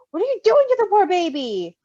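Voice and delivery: a scolding parent's rise. A narrator's reading. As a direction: scold him for mishandling the baby. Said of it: "Patton scolded".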